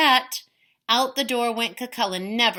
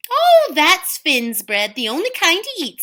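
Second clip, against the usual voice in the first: mock innocent; 8 semitones higher, 8 dB louder than usual. Una teasing innocently.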